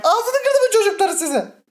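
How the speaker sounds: high shouting, close to tears; real frightened wail; crying panic shout. Real, not acted. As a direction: yell them away, half sobbing. Cornered by enemies in game.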